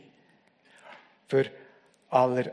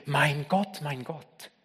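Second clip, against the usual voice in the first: soft, fading "mein Gott", the second almost breathed; hushed cry; 6 dB quieter, slower than usual. Acted. Preacher voicing Jesus, quietly echoing his forsaken cry. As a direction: let "Gott" die away to nothing. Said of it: "Hier schreit er".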